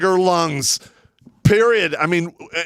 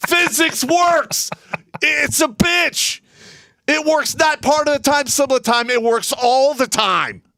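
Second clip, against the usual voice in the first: worked-up, heated, pitched-up delivery; 9 semitones higher than usual. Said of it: "I gotta calm down".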